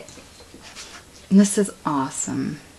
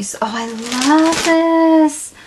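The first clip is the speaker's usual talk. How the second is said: higher, louder and slow; gushing; 8 semitones higher, 4 dB louder, much slower than usual. Real, not acted. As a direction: melt over the gift. Gushing over a gift.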